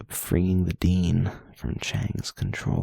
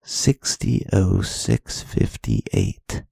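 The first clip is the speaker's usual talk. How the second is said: owl-like hooting read; 5 dB louder, much slower than usual. Shown as a demonstration. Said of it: "Say it out loud".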